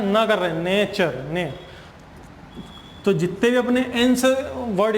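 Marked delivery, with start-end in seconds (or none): 0.0-0.3 N sounded as "ना", not the letter name; letter sound demo. Shown as a demonstration. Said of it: "यहाँ पे उच्चारण क्या कर रहे हैं". 0.6-1.5 "नेचर" said, then its first syllable "ने" alone, softer; pronunciation demo. Shown as a demonstration. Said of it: "नेचर का अगर अपन यहाँ पे उच्चारण".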